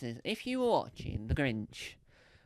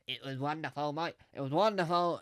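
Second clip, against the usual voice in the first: Jim Henson impression. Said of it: "That's my impression of Jim Henson".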